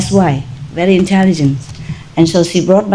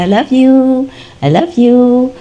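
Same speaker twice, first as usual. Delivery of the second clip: raised, drawn singsong to the dogs; higher, doting call to pets; affectionate; 5 semitones higher than usual. Retold or imitated. Owner telling dogs before sleep, affectionate.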